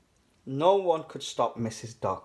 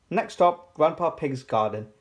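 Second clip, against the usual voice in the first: louder, higher start like a stop announcement; announcing; 3 semitones higher, 3 dB louder than usual. A narrator's reading. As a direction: announce the next destination. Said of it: "announced Grampy Rabbit".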